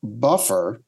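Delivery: slow, drawn-out fight announcer call; Bruce Buffer announcer. Retold or imitated. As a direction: stretch it like a ring announcer. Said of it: "U F C announcer".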